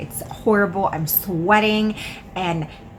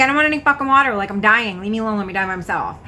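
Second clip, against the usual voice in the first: retold exasperated refusal; 3 dB louder, much faster than usual. Sick woman tells friend to leave her be, exasperated. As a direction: wave away the offer, worked up then tapering. Sick, snapping at his offer of water.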